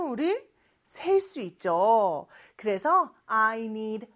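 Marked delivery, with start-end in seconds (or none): 3.2-4.1 slow English, "a" set apart; slow, spaced teacher demonstration; word-by-word model. Shown as a demonstration. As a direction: separate "a" from "need" and "computer". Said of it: "이렇게 표현을 합니다".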